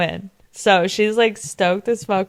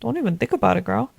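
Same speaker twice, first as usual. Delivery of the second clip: mock sassy warning, voice pitched up; sassy jealous sister-in-law; 3 semitones higher than usual. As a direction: snap it off like a catty rival. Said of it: "She's like".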